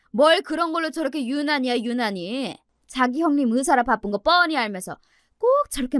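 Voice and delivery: lightly voiced grumbling mother-in-law; indignant mother-in-law. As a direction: complain about the daughter-in-law with mild indignation. (못마땅해 투덜대는 시어머니)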